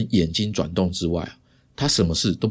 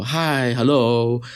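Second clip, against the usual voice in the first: cheerful greeting; 2 semitones higher than usual. Retold or imitated. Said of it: "很有精神的跟他们说".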